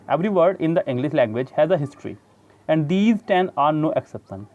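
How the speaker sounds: slow, deliberate reading of the English text; measured textbook read-aloud. Shown as a demonstration. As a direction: read the book passage out slowly. Reads English textbook passage aloud.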